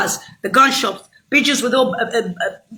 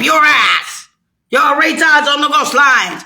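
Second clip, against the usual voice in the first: angry shout; slower than usual. Real, not acted. Ranting at listeners.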